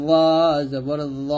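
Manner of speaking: long, heavy "ল", then জবর ল; heavy pronunciation. Shown as a demonstration. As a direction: say ল with a thick, heavy, full-mouthed sound. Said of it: "মোটা করে". (মোটা করে "ল জবর ল" উচ্চারণ)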